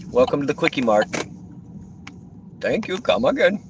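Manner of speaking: high, lilting cartoon shopkeeper voice; Simpsons store clerk. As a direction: imitate the Kwik-E-Mart clerk's greeting. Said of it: "If you know about The Simpsons, you know where I'm at".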